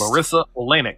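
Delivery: patiently correcting a friend's pronunciation; careful name demo. Shown as a demonstration. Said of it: "the emphasis is on the same syllable".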